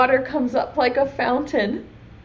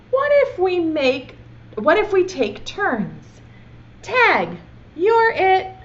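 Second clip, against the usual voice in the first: put-on slow, pleading little-boy bargaining; storybook boy coaxing, rising to higher; 3 semitones higher, 4 dB louder, slower than usual.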